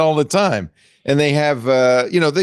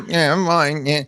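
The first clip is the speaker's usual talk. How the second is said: lightly robotic mock computer voice, slightly raised; imitated early speech synthesizer; 4 semitones higher, slower than usual. Podcast host recalling early voice synthesis, mock robot voice. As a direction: do a crude old talking computer. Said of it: "early voice synthesis".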